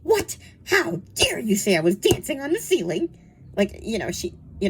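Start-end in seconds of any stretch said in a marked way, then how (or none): 0.0-3.2 affronted denial, jumping high on the first word; mock indignation. Nanny denying the children's adventure, mock indignant. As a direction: act offended at a preposterous claim.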